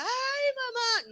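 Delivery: high imitating wail of grief; mock wail. Daughter imitates the grieving cry expected at her mother's side, high and wailing. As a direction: act out the breakdown the nurse expected. La enfermera esperaba que yo me tirara.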